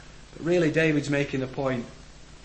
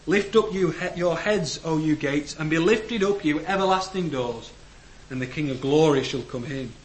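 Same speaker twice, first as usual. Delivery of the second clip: psalm proclaimed; 3 dB louder than usual. Acted. Reading psalm aloud, raised voice.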